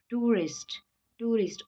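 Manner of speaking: टूरिस्ट with the oo gliding into a; diphthong demo. Shown as a demonstration. Teacher modelling the diphthong in टूरिस्ट. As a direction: glide the first vowel of टूरिस्ट. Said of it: "ओ और अ का sound आ रहा है".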